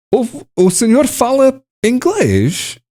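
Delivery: high mock-surprised question; imitating a surprised local. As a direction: parrot the locals' surprised switch to English. (imitação de um português surpreendido, voz alta)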